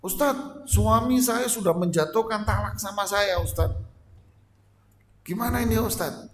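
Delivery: a wife rushing to the preacher, upset and pleading; emotional wife. Acted. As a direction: play a wife who takes it too much to heart. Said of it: "disikapi oleh kaum istri ini dengan baper duluan".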